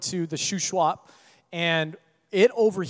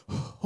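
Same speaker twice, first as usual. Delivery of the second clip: soft reluctant sigh; a heavy little sigh giving in; resigned sigh; 9 dB quieter than usual. Retold or imitated. Nephew sighs before jumping, a soft resigned sigh. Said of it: "He goes".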